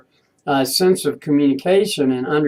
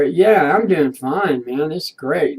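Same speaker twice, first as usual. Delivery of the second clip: bright fine; slower than usual. Shown as a demonstration.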